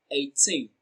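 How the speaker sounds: put-on eighteen with a long, falling "teen"; stress on TEEN. Shown as a demonstration. Teacher showing the stressed syllable of eighteen, stress on TEEN. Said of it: "Teen receives the stress".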